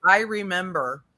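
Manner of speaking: talking around ice in the mouth; words slurred by a mouthful of ice. Real, not acted. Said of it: "I have ice in my mouth".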